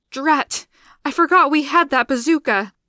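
exclaiming. A narrator's reading. Scientist exclaims at explosion.

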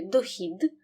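final д in «дохід» kept voiced; clear voiced ending. Shown as a demonstration. Teacher shows pupils the final sound, clearly voiced. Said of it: "вимовляємо чітко".

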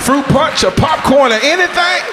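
high eager-to-please offer; suddenly sweet. Retold or imitated. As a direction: chicken out and offer him snacks. Backing down, friendly high offer.

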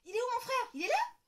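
put-on high, loud excited child; girl calling through the ward; child's cry. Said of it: "crie Lola".

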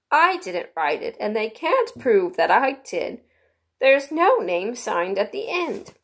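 lightly voiced knave, slowly drawn out; a touch of slow, earnest protest. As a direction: plead innocence in slow, stretched words. Reader voices the accused knave.

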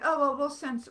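imitated flustered outburst; flustered young helper. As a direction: mimic a startled hotline volunteer. Imitates young man on hotline reacting.

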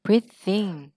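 "Breathe in" joined by a voiced TH; teacher modelling the link in "Breathe in". Shown as a demonstration. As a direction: run "Breathe" into "in" as one word. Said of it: "The với in là in nè".

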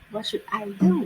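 "What should I do?" with the pitch falling on "do"; teacher's model of a falling wh-question; falling question tune. Shown as a demonstration. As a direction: let your voice drop at the end of "do". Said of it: "ลงเสียง".

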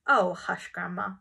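loud, urgent plea; urgent children's protest; begging to hush. A narrator's reading. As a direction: cut in loudly to quieten her. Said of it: "begged the children".

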